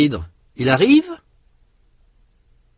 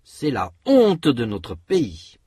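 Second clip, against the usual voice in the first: slow, with insistence on honte; emphatic stress. Shown as a demonstration. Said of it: "Répétez".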